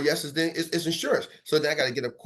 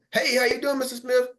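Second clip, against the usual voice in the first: eager greeting; 6 semitones higher than usual. Shown as a demonstration. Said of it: "some of y'all can go like this".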